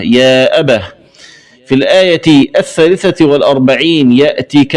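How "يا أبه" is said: أبه ending in breathed h; stop on ha. Shown as a demonstration. Teacher showing the stopped form, أبه closed with h. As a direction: pause on أبه as "abah". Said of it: "ووقف عليها بالهاء".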